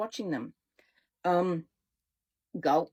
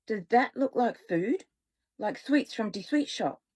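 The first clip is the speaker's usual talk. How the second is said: put-on German accent. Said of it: "has an accent".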